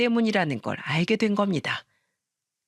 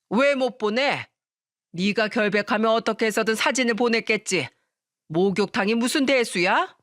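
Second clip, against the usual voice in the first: mildly raised, indignant mother-in-law; angry outburst; 2 semitones higher than usual. Acted. Mother-in-law demands a photo from the bathhouse, angry outburst. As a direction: demand it with a touch of outrage, pitch lifted. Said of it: "시모가 버럭 소리를 지르자".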